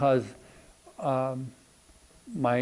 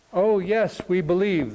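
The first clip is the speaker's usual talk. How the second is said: higher-pitched imitation of a crowd's shout; mild mock shout; 4 semitones higher than usual. Crowd answers the tightrope walker, mild retold shout. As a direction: retell an eager crowd's yes, stopping short of shouting. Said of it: "they all shouted with one voice".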